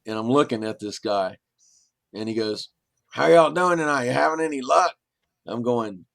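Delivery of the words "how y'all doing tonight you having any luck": breezy hello from a man out of the dark; friendly stranger greeting. Retold or imitated. Game warden greets startled snake hunter, higher and louder.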